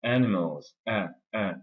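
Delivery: "Animals" stressed on its opening A; strong first syllable. Shown as a demonstration. Teacher showing a strong syllable, stressed A in "Animals". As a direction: lean on the A of "Animals", then isolate "a". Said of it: "c'est une syllabe qui est forte".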